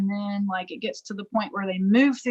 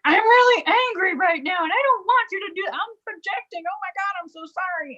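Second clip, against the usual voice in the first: higher, retold angry then apologetic lines; lightly acting out the anger, then sorry; retold heated exchange; 9 semitones higher than usual. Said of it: "And it was like".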